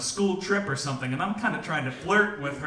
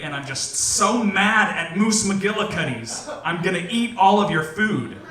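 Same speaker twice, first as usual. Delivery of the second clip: mock angry; 3 semitones higher, 6 dB louder than usual. Mad at restaurant, vowing revenge.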